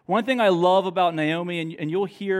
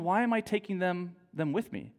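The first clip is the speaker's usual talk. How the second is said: inner worried thought; 6 dB quieter than usual. Retold or imitated. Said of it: "she's thinking".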